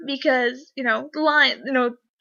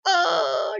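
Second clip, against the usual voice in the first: surprised; 6 semitones higher than usual. Retold or imitated. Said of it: "And I'm like".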